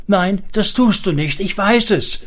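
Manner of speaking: high, insistent self-soothing; self-reassurance. A narrator's reading. Wife calming herself that he will not, self-reassurance. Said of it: "beruhigte sie sich".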